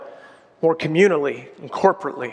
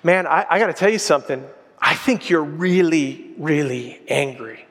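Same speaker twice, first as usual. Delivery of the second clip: leaning in gently; 3 semitones lower than usual. Retold or imitated. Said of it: "I lean in and I say to him".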